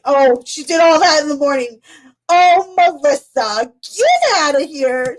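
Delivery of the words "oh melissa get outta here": slow, higher drawn-out tease; teasing disbelief. Real, not acted. Teasing Melissa in chat, slow playful disbelief. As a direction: stretch it out, playfully incredulous.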